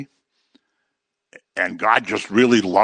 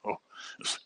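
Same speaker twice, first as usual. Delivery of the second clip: mock interest; 8 semitones lower, 15 dB quieter than usual. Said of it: "people on C N N go".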